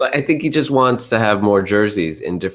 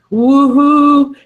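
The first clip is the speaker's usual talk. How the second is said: excited cheer; 9 dB louder than usual. Real, not acted. Excited podcast opening cheer.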